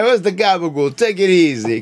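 hammed-up New Jersey gangster; Tony Soprano voice. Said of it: "Sound like Tony Soprano".

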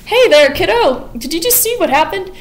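mock menacing cheer to a child; creepy sweet killer. Sweeney confronts Joanna.

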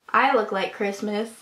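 tripping over the words; stumbling speech; stuttering. Real, not acted. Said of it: "I don't know why I'm stuttering".

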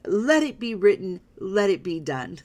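half-hearted pharaoh pronouncement; weaker Yul Brynner retry. Retold or imitated. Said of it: "I can't do the accent quite as well".

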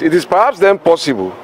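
"possible" given deliberate emphasis; stress on "possible". Real, not acted. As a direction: lean on the word "possible". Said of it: "I stress the word possible".

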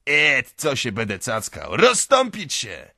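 loud impatient shout rising to a high bellow; yelling like a madman. A narrator's reading. Raging owner clearing the crowd aside, yelling madly. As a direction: scream it like a crazed man. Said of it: "wrzeszczy Mikołka jak wariat".

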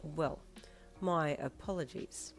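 soft, slow, tight-lipped apology; strained politeness. Acted. Manager apologises to a petty customer, strained and polite. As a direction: swallow your irritation and stay polite. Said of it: "with strained politeness".

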